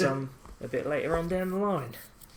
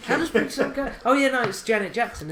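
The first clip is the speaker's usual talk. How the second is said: excited; 9 semitones higher, 7 dB louder than usual. Real, not acted. Excited recall.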